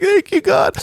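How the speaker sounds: mock tearful prayer, very high; hammed-up crying falsetto; Mary. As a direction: squeal thanks like a weeping pastor. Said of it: "now you're talking about, You're crying?".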